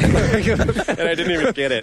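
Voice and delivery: high, loud, slow complaint through laughter; laughing mock lament. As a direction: wail it jokingly while laughing. Joking lament amid shared laughter.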